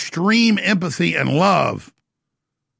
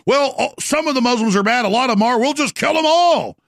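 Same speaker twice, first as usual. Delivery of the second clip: mock callous voice; 5 semitones higher than usual. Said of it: "That's the attitude that bunch of them have".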